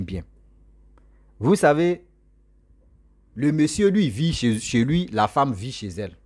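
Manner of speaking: plain reading voice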